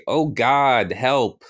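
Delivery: storyteller's mild pleading yell; mock yell for help. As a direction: call out for rescue, lightly acted. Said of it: "I'm yelling for help".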